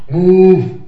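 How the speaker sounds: high, loud, curt order; mock-impatient shouted command; computer guy. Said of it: "I love the computer guy".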